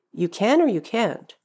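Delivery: "can" with a full 'a' as in soup can, against "can't"; confused question. Acted. Confused listener responding to teacher, "can" and "can't" both stressed. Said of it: "pronounce it literally with an A sound".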